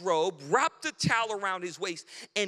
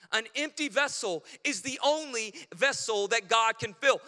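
rising to a loud peak; 3 dB louder than usual. Shown as a demonstration. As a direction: build and land fill loud. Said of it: "write this in your notes today".

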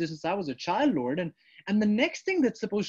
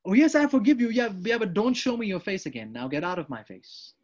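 grudging forgiveness; 2 semitones higher, 4 dB louder than usual. Acted. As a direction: open warmly, end pushing them away. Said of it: "somebody knows how that feels".

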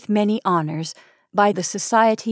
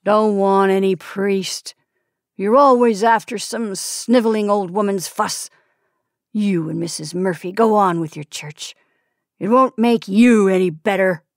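growl; 3 dB louder than usual. Acted. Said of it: "The growl deepened into words".

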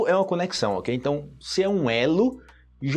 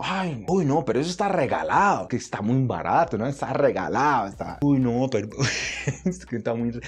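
1 Colombian Spanish; 4 semitones lower than usual. Retold or imitated. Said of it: "Pelo menos na Colômbia falam".

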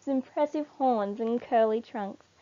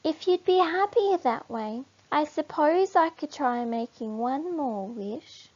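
Nagiri pondering one more wish; thoughtful small warthog; 6 semitones higher, 4 dB louder than usual. Acted. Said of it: "says Nagiri thoughtfully".

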